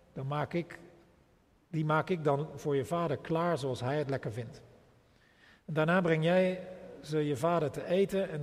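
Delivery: unhurried reading of the story with quotes lightly voiced; scripture reading. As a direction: read the passage steadily to the congregation. Reads Genesis scripture aloud.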